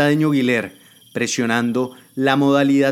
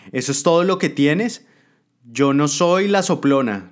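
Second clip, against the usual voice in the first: raised, stubborn retort; defiant adviser; 4 semitones higher, 3 dB louder than usual. Acted. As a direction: spit back after the kick. Beaten adviser talks back.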